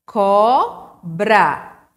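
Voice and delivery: "Cobra" in two separate, drawn-out beats; syllable by syllable. Shown as a demonstration. Teacher counting syllables for the class, "Cobra" broken into two beats. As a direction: say "Cobra" as CO, pause, BRA. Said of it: "Foram duas vezes".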